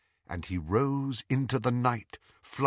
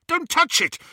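high, loud pained cry; yell of pain; 6 dB louder than usual. A narrator's reading. Harry to Greyback, a loud pained yell. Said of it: "Harry yelled".

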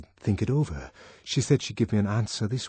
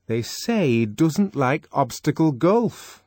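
gossipy Fanny; 7 semitones higher, 5 dB louder than usual. Acted. Fanny gossiping about Bernard.

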